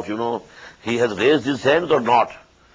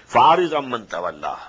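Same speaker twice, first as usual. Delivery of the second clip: melodic, measured tajweed chant; Quran recitation; 2 semitones lower, much faster than usual. Acted. Teacher recites the verse to his students, chanted tajweed. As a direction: intone the verse as in prayer.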